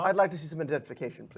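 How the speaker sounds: fast, demanding little official; officious pixie. Acted. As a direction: insist on ID briskly. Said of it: "he goes".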